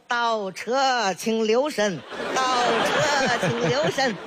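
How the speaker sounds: slow, chanted like a car's reversing voice; sing-song like a parking announcement; mock reversing alarm. Grandma imitating a reversing car for the baby, slow chant.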